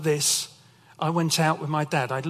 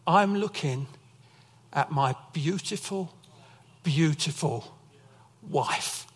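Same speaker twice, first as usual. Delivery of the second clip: tender; slower than usual. Retold or imitated. Father's tender words retold.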